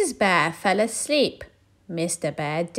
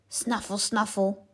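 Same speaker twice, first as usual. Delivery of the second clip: snuffling; 5 dB quieter than usual. Acted. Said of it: "went the hedgehog".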